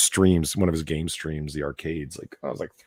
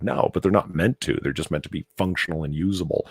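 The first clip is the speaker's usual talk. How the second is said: ordinary talk, nothing marked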